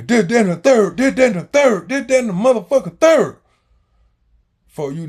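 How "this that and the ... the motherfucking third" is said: loud, much higher shouted chant; brother yelling. Retold or imitated. Older brother coming at him, a loud high scolding yell. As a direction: hammer each phrase like a scolding. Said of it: "my brother just coming at me".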